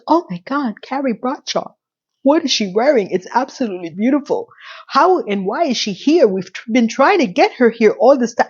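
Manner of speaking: put-on lilting, amateur British accent; attempted British accent. British publisher reacting to Carrie walking in, amateur British accent. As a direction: try a British accent, pitch swooping up and down. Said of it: "I don't have a British accent".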